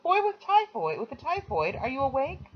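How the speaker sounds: put-on high girlish call through the wall. A narrator's reading. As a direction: call out brightly to the next room. Patricia calls through the wall.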